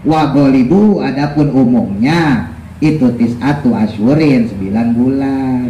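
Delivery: slow, measured kitab recitation; deliberate teacher's text reading; reading a religious text aloud. Real, not acted. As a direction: read the Arabic and gloss it slowly. Reads and translates the text.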